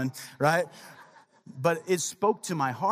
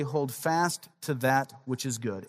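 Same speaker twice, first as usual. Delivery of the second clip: slow emphatic reading; 4 semitones lower, slower than usual. Shown as a demonstration. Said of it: "Here's what he says".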